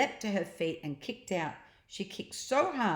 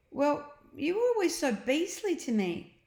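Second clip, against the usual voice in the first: put-on eager boy, higher and quick; Ned, eager boy; 9 semitones higher, 3 dB louder than usual. A narrator's reading. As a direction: push the plan on, excited. Ned voiced.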